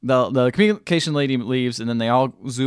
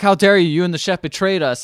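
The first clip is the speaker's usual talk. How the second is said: mock outrage; 5 semitones higher, 3 dB louder than usual. Acted accusation of betrayal.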